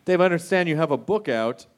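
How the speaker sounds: casual host segue, acting offhand; talk show host. Shown as a demonstration. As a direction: slide in like it just came up. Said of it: "That's how you're supposed to do it in the talk show world".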